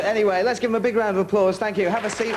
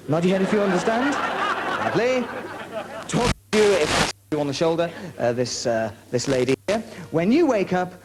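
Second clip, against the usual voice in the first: measured, soothing stage hypnotist; a stage hypnotist talking the volunteers into their roles; hypnotist patter. Acted. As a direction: lull the volunteers into the suggestion.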